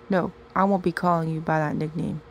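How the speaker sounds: flat, even monotone voice. Acted. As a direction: dull unmoved delivery. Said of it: "all monotone-like".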